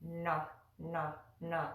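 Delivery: na with the tongue curled back; retroflex na. Shown as a demonstration. Teacher repeating the retroflex na. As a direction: repeat na from that spot. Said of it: "pronounce that right in that spot".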